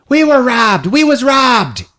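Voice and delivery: hammed-up sore loser; mock indignant. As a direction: whine about being cheated. Loser complaining.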